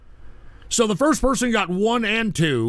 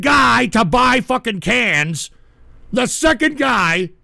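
angry shout; 4 semitones higher, 4 dB louder, slower than usual. Real, not acted. Ranting at the viewer.

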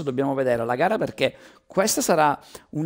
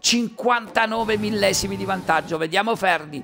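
fast race commentary, rising with the action; live play-by-play; 2 semitones higher than usual. Real, not acted. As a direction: call the qualifying lap live.

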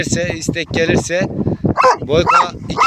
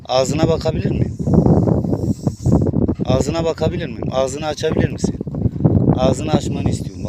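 gentle coaxing; 5 semitones lower than usual. Real, not acted.

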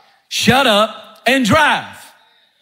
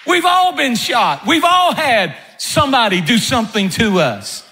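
barking captain; 2 semitones higher than usual. Retold or imitated. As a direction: snap the orders like a captain under fire. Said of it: "the answer of the captain is a classic".

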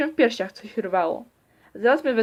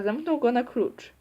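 usual speaking voice

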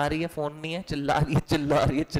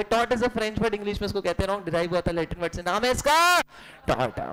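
rote recitation; 2 semitones higher than usual. Shown as a demonstration. Teacher models a catchphrase for students to parrot, rote recitation. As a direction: build to a big cue, pause, drop the answer.

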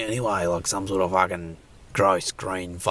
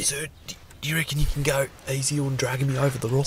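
pleading creature; 6 semitones higher than usual. Acted.

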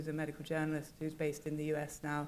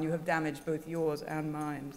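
put-on New Zealand accent; 4 dB louder than usual. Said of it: "New Zealand accent".

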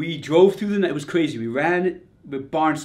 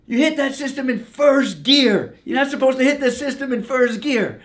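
higher, louder, slowed-down telling off; crew chief scolding; 9 semitones higher, 5 dB louder than usual. Retold or imitated. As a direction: imitate the crew chief laying down the law. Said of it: "He goes".

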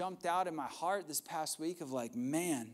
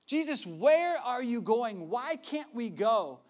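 louder, slow, stretched questions; exasperated Thomas; 5 semitones higher, 5 dB louder, slower than usual. Retold or imitated. Thomas pleading with Jesus at the table, loud and slow. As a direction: lay it out, you truly don't get it. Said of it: "He says".

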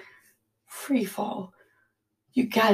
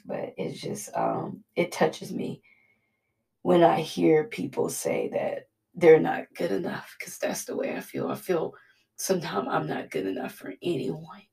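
choked, hushed confession; quiet crying, barely holding together; tearful whisper; 3 semitones lower, 4 dB quieter than usual. Real, not acted. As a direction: whisper it through tears. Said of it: "I'm sorry for crying".

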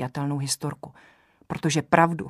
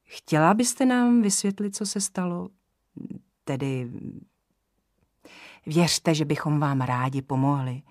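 velmi laskavě. Acted. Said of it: "pokračoval velmi laskavě".

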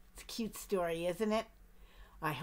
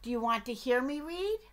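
eager duck; 3 semitones higher, 3 dB louder than usual. Acted. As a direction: pester the bear as a nosy duck. Duck's voice.

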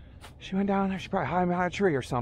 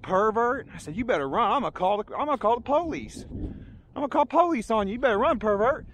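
raised, higher outraged warning, not a full shout; outraged threat; 3 semitones higher than usual. Retold or imitated. Telling the woman on the trail to run, mock outraged yell. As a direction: chase her off, calling her out as a pervert. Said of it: "I looked right here and said".

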